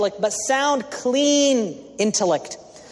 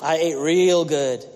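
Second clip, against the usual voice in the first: emphatic gloss; 6 semitones lower, slower than usual. Shown as a demonstration. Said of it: "For example".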